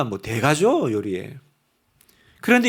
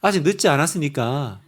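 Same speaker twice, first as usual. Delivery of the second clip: laughing; 5 semitones lower than usual. Real, not acted. Joking self-deprecation.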